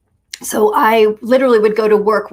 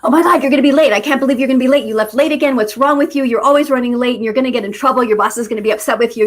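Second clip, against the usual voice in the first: panicky inner voice; 2 semitones higher, faster than usual. Retold or imitated. Her inner critic nagging on the drive to work, panicky and fading. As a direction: nag yourself in a spiral of worst-case panic, then let it wind down. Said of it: "this voice sounded something like this".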